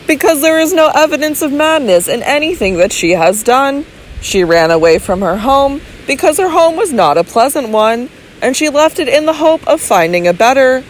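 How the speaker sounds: calm medical man reasoning it through; measured physician. Acted. Physician reasoning calmly with Robert, lightly voiced doctor.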